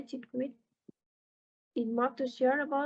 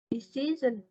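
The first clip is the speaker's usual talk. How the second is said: "decision" stressed on "ci"; stress on second syllable. Shown as a demonstration. Teacher giving an example for students, "decision" stressed on its second syllable. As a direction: put the weight on "ci" in "decision". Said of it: "the second is C".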